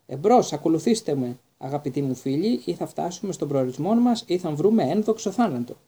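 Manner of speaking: loud, heroic knight calling his companions on; rally the troops with pompous glory; rallying cry. Acted. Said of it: "και φώναξε".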